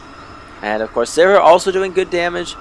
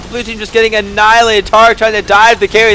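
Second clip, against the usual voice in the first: high, loud, fast hype call; excited play-by-play; 6 semitones higher, 4 dB louder, faster than usual. Real, not acted. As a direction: call the fight at full hype. Big team fight erupts.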